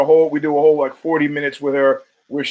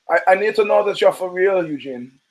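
put-on German accent; 2 semitones higher than usual. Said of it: "in his German accent".

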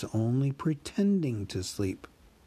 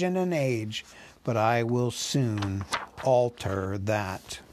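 a huge dragon toying with the thief; dragon Smaug; 2 semitones higher than usual. Acted. Narrator voices Smaug.

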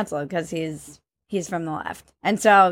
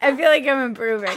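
alien voice; 3 semitones higher, faster than usual. Shown as a demonstration. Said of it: "Stop it".

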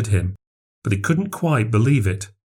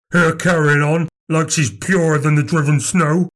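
higher-pitched, fed-up tirade; angry rant; 6 semitones higher than usual. A narrator's reading. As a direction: rail at Nan accusingly. Max rants, banging the table.

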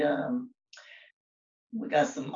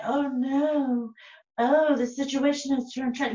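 higher-pitched mock concerned onlooker; imitated onlooker; 5 semitones higher, slower than usual. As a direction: narrate the disaster like a dismayed bystander. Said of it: "they'd just be like".

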